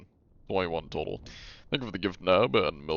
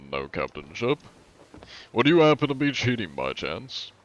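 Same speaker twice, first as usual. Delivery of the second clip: John Anti-Cheat. Pretend. Streamer greets a ship's crew as an inspector, in a lightly hammed official voice. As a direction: play a mock-polite inspector questioning a suspected cheater. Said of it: "It is I, John Anti-Cheat".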